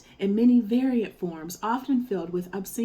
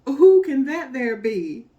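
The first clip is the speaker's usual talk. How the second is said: high, louder teasing monkey voice; mocking monkey; 6 semitones higher, 7 dB louder than usual. A narrator's reading. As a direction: tease him from up in the tree. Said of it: "he said".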